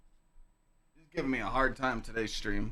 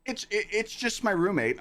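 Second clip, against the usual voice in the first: imitating the girl; 7 semitones higher than usual. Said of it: "She's like".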